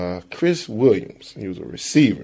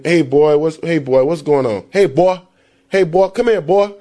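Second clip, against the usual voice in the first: put-on higher, loud Southern calling of boy; country drawl; 6 semitones higher, 4 dB louder than usual. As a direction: call out like a country guy. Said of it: "instead of saying".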